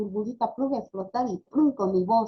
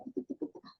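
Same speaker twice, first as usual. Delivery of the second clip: quiet little nonsense chatter; imitating jargon babble; 3 semitones higher, 11 dB quieter, faster than usual. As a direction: mimic a child's babbled jargon. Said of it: "Ahora hay que sacar el tiki taka".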